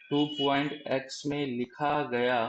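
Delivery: slow deliberate repeat. Shown as a demonstration. Teacher repeating for confused students, slow and deliberate. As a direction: slowly spell out two point x में लिखा गया, word by word. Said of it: "मैं फिर से एक बार समझाने की कोशिश".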